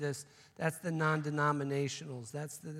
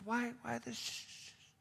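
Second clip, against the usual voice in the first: puzzled hushed question; 9 semitones higher, 7 dB quieter than usual. Acted. Bud asks about shushing.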